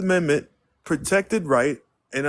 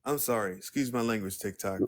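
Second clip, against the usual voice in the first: much softer, lower aside; sheepish apology; 4 semitones lower, 8 dB quieter than usual. Real, not acted. Host apologising to TikTok viewers for swearing, soft and low. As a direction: duck down and apologise quietly.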